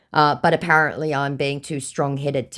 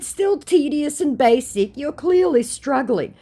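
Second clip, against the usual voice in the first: high, slow, lofty scorn; snooty high voice; 12 semitones higher, 4 dB louder, slower than usual. Retold or imitated. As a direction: look down on him. Her own retort, acted.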